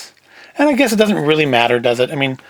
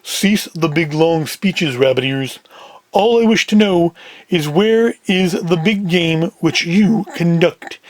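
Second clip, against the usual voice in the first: slow, deliberate heavy, lightly voiced; slow down into a slightly deeper character voice; deeper Big Sam voice; slower than usual. Big Sam cutting off Rabbit Ears, slow deeper voice. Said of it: "Big Sam in the deeper voice".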